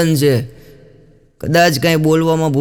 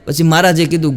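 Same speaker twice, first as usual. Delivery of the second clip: normal talking voice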